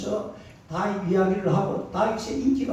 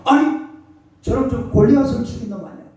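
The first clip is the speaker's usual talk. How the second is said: sudden higher, louder exclamation of recognition; surprised king; 5 semitones higher, 4 dB louder than usual. Acted. Preacher voicing King Achish recognizing Goliath's killer, surprised higher exclamation. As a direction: start high with surprise, then rush on.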